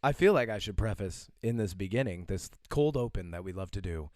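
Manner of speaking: hoarse voice from laryngitis; lunch lady voice. Real, not acted. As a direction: talk through a sore, hoarse throat. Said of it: "is the product of laryngitis".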